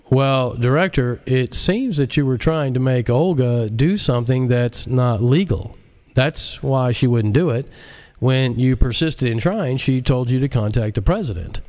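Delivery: lightly voiced smug tech genius; J L, smug hacker. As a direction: talk down to the director like a bored expert. J L character voice.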